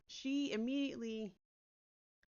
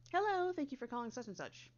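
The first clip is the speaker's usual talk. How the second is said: perky greeting; 4 semitones higher than usual. Shown as a demonstration. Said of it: "I'll give the perky".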